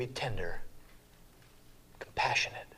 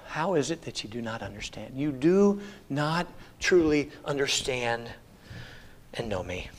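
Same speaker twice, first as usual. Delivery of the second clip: with love. Retold or imitated. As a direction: ask it tenderly, like a patient teacher. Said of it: "I think he said it with love".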